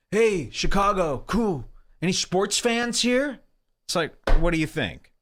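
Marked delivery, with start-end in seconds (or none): 0.1-3.4 higher, hammy crowd-work voice; mock comic voice. Imitating Joe Kilgallen asking Chicago about sports, high and hammy. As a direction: parody a comic fishing for applause. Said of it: "he would go".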